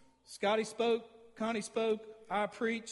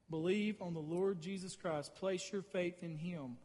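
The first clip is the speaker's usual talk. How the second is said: slow emphasis; 2 semitones lower, 4 dB quieter, slower than usual. Shown as a demonstration.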